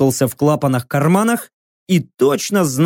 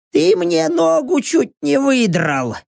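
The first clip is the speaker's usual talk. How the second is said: put-on higher, slow, aggrieved old man; grumpy old mechanic; 7 semitones higher than usual. Rocks complains to the narrator, aggrieved old man.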